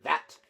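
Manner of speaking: That, punched as the accusation; stress on That. A narrator's reading. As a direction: lean hard on That, pausing after it. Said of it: "he emphasized the word".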